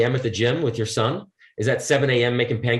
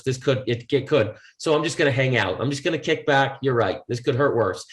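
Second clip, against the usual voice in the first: resigned inner voice. Retold or imitated. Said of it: "you settle and you go".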